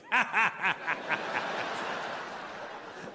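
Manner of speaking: unvoiced wheezing laugh; breathy laugh. Russian friend hears the story and wheezes with laughter. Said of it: "And he's like".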